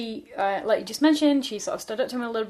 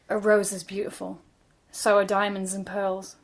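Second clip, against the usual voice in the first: put-on teenage boy voice. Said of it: "You have to do it in teenage boy voice".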